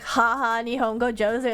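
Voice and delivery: lightly mocking, dry sarcastic praise; fake-compliment them with a dry sneer; mild imitated sarcasm. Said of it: "in a sarcastic way".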